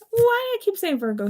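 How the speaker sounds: high, loud flustered outburst; exasperated at herself. Real, not acted. Reader catching her own slip, high loud exasperation. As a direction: throw your hands up at your own mistake.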